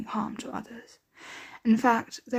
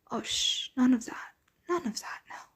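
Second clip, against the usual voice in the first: soft, gentle shushing; soothing hush; 3 dB quieter than usual. Acted. Vampire to newly bought captive, soothing hush. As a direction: hush them tenderly, trailing softer.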